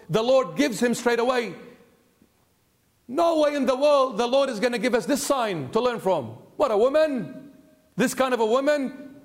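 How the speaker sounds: acted-out shocked objection; shocked disbelief. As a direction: scoff in disbelief, voice lifted. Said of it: "They got shocked as well, but they laughed".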